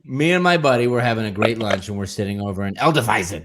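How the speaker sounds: ordinary talk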